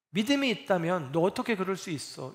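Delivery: a mildly accusing scold; light imitation of a disappointed teacher; 책망하듯 살짝 흉내; mock harsh rebuke. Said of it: "이렇게 꾸짖는 게 아니에요".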